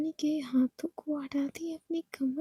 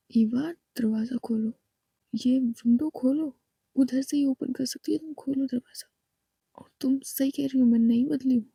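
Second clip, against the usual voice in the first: threatening wife; 2 semitones lower, 3 dB louder than usual. Acted. Ishani voiced threatening.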